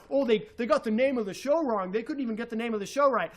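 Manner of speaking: a light sneering imitation of the critic, fast at the end; lightly voiced snide host; mocking the critic. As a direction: parrot him as a smug know-it-all. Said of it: "He's sitting there talking about how".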